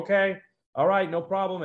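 high, light, dazed okay; dazed agreement. Retold or imitated. Dazed reply to medic.

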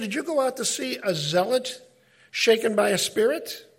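quoting Jesus. Retold or imitated. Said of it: "it was a word play".

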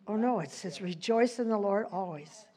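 reluctant, dejected quote; acted downcast. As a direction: recite it as if too down to mean it. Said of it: "have you ever been really down".

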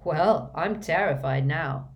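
slow, dry mock terror; sarcastic. Harry mocks Malfoy's threat, slow and sarcastic. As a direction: lay the sarcasm on thick, slowly. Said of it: "said Harry sarcastically".

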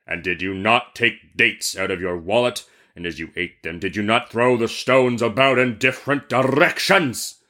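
stern genie interrogation; demanding genie. Acted. Genie questions the merchant, stern demanding voice. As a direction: press the question as an accusing genie. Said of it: "demanded the genie".

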